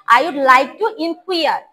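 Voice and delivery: very slow, clear drill; slow model reading. Shown as a demonstration. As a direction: spell it out word by word for the class. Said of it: "আবার বলো". (ধীরে ধীরে স্পষ্ট করে বলা)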